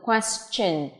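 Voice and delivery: "question" with a clear ch in the ending; slow demo of "question", ending in chen; ch sound. Shown as a demonstration. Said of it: "phát âm là ch".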